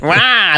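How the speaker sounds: drawn-out, put-on "waah"; mimicked wah. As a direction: echo the teasing imitation back. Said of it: "do I end every sentence with wah".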